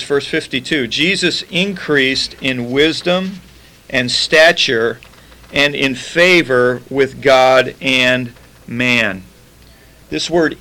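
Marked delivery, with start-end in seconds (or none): 0.9-9.2 very slow, weighty reading; scripture reading. Acted. Preacher reading Luke to his congregation, very slowly. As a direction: draw out each phrase of the verse. Reads Luke verse fifty-two.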